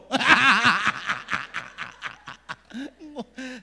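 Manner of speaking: long, loud burst of laughter; hearty laugh. Real, not acted. Preacher laughs at his broken English, hearty laugh. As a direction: laugh hard at your own joke.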